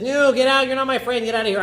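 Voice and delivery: high, loud angry shout; acted furious yell at an unwanted guest; angry outburst. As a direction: throw him out of the party. Host throws Bar Kamsa out.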